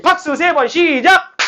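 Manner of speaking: high, drawn-out teacher's count-in; calling a cue. Real, not acted. 교사가 박수 구령을 외침. (길게 늘여 외치는 구령)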